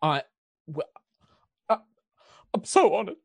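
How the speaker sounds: put-on very high, loud English accent, choked up; overwhelmed English baker. Baker woman overwhelmed by the lady's visit, tearful English accent. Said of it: "she starts genuinely, like, crying".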